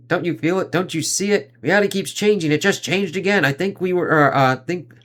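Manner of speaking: high, rising panic as reality keeps shifting; pleading, frantic, not believing what he sees; freaking out. Acted. Cap panics to Superman at the party, frantic and high. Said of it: "Cap's fucking freaking the fuck out".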